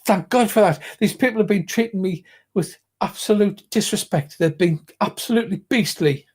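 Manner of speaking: lightly voiced haughty lady; a hint of an outraged aristocrat; indignant noblewoman. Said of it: "she says".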